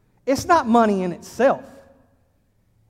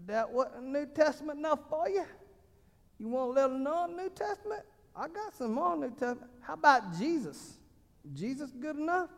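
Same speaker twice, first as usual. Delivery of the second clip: put-on tough voice; 6 semitones higher, 10 dB quieter than usual. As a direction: taunt them like a schoolyard tough. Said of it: "I don't know, it just comes out".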